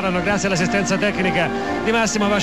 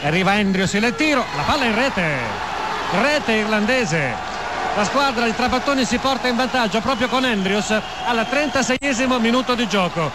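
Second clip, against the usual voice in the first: goal call. Real, not acted. Goal called live.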